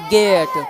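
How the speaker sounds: गेट with a long "ay" vowel, silent final E; pronunciation demo. Shown as a demonstration. Teacher answering the class on pronunciation, गेट said "gayt". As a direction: model गेट as one syllable, "gayt". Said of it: "इसका उच्चारण क्या हो जाएगा".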